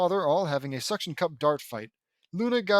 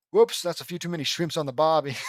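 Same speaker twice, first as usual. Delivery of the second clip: louder put-on Australian accent; Australian wildlife explorer; 5 dB louder than usual. Lincoln overfeeding the fish, Australian accent. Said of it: "pretending to be an Australian wildlife explorer".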